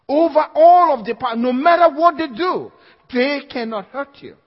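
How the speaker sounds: loud, high preaching cry. Acted. Preacher rallying the congregation, loud. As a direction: declare it with full force.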